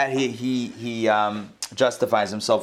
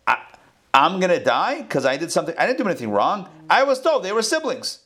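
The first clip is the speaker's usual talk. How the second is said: Avimelech justifying himself; 6 semitones higher than usual. Acted. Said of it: "This is Avimelech justifying himself to God".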